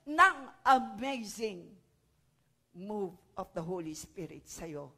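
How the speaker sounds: loud, ringing proclamation of blessings; preacher declaring blessings over the congregation, loud and ringing; preaching at full force. Acted. Pastor proclaims blessings to the church, loud and fervent.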